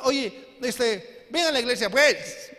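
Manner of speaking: lightly voiced casual church invite; tossing off an invitation, a touch mocking; a hint of a flippant churchgoer; careless invitation. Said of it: "así predicamos".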